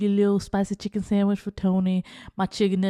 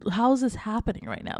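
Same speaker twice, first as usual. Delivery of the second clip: slow, drawn-out stunned question; shocked disbelief; 4 semitones higher, slower than usual. Retold or imitated. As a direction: stretch it out in disbelief. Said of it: "I'm just like".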